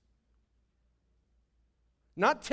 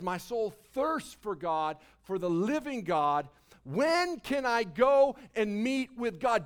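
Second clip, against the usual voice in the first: heartfelt longing. Real, not acted. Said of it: "Do you hear the heart".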